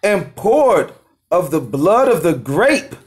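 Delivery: slow, measured reading of holy text; scripture reading. Acted. Reading the verse to the study group, slow scripture reading. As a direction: read it out slowly, phrase by phrase.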